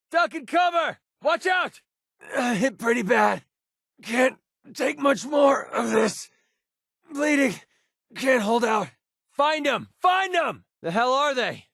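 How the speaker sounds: high yelled warnings and pained lines; combat shouts. Acted. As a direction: shout warnings under fire. Companion combat shouts and wounds.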